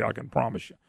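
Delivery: normal talking voice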